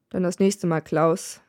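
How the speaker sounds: low, grudging mutter; a hint of a growl through the teeth; mild growl. Death leaving the dying man, with a mild low growl. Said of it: "knurrt er".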